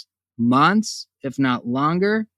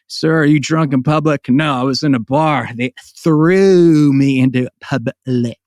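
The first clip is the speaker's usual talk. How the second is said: a hint of a gruff Southern comic; lightly voiced drunk-guy punchline; Ron White impression; 3 semitones lower, 4 dB louder than usual. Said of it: "Ron White joke".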